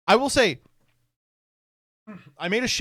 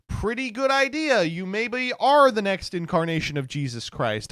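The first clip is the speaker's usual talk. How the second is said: high, gushing mock praise; butter up the user like a sycophantic AI; hammed-up flattering machine; fawning chatbot voice; 6 semitones higher, 3 dB louder than usual.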